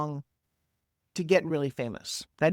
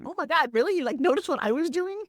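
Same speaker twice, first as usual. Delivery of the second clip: excited; 9 semitones higher than usual. Retold or imitated. Her thrilled reply to Flex.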